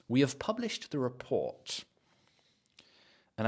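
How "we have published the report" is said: softer, "have" reduced to uv; unstressed "have". Shown as a demonstration. Teacher shows it isn't important, unstressed "have". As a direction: let "have" vanish between "We" and "published". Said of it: "have is not really important here".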